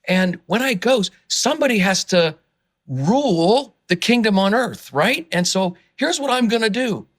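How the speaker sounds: earnest and worked up; charged up. Real, not acted. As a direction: speak with eager conviction. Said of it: "I get so charged about this".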